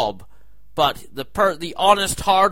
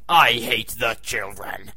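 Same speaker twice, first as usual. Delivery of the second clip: deadpan aside; 7 semitones lower than usual. Acted.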